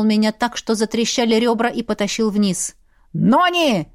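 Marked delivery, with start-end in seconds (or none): 3.1-3.9 thundering call. Acted. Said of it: "прогремел его голос".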